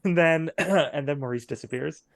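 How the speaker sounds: ordinary talk, nothing marked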